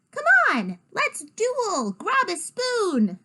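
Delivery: rally a sibling to a duel; excited kid calling someone to play; eager challenge. A narrator's reading. Child challenges sister to duel.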